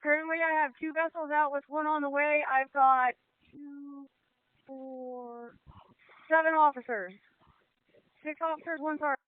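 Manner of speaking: as heard through a VHF handset; marine radio. Real, not acted. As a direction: voice over a crackly boat radio. Radio call during river rescue.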